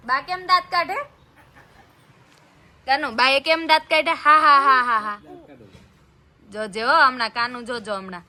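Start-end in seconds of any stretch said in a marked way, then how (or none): 4.1-5.2 loud playful ha-ha laugh. Real, not acted. Mother laughing aloud to make baby giggle.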